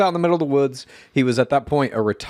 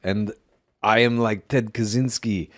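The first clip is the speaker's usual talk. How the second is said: a hint of the Austrian strongman, deliberate; Arnold Schwarzenegger impersonation. Podcaster playing an armed loner in his shack, light Schwarzenegger impersonation. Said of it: "I'm doing an Arnold Schwarzenegger impersonation".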